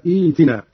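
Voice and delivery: إيتنا said "eetinaa", long ee after the first hamza; second hamza replaced. Shown as a demonstration. Teacher showing how to begin the word, إيتنا as "eetinaa". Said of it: "نبدأ بإبدال الهمزة الثانية هكذا".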